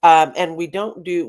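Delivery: ordinary delivery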